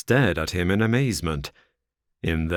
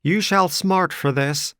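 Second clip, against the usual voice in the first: higher, louder furious threat; cried in rage; 11 semitones higher, 4 dB louder than usual. Acted. Stangerson threatening Ferrier, higher and furious. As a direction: spit the threat out. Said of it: "Stangerson cried, white with rage".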